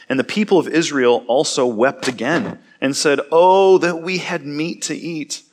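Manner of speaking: steady, measured Bible reading; scripture reading. Acted. Pastor reading Numbers to his church, measured and clear. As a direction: read the passage to the congregation.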